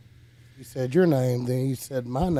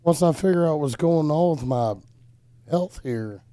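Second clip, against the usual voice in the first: hoarse, raspy voice; rough smoker's throat; smoker's rasp; 2 semitones higher than usual. Real, not acted. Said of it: "I sound like I've been smoking a carton of cigarette a day".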